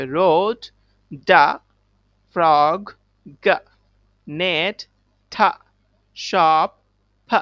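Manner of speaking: loud word and final-sound drill; say it loud together. Shown as a demonstration. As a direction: call out word then its last sound. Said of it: "আমার সাথে আবার তোমরা জোরে জোরে বলবে". (জোরে জোরে উচ্চারণ)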